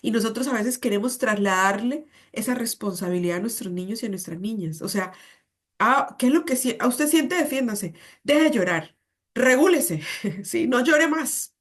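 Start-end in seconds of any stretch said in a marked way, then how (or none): 5.8-11.6 a hint of an impatient parent, slowing on the last line; mocking dismissive parent. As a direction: brush off the crying child.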